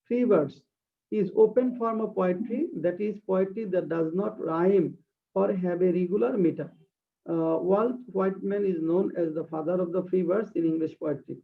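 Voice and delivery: very slow, deliberate reading of a definition; slow dictation. Shown as a demonstration. Teacher reading a definition aloud to her class, slow dictation. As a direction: read it word by word for students to copy. Reads English definition slowly.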